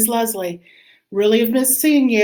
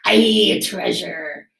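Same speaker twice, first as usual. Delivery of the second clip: crew shouting; 2 semitones lower, slower than usual. Acted. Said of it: "the others shouted".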